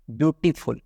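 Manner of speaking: ब्यूटीफुल split as ब्यूटी, फुल; in two pieces. Shown as a demonstration. Teacher showing two sound pieces, ब्यूटीफुल split before फुल. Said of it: "ब्यूटीफुल में दो टुकड़े हो रहे हैं".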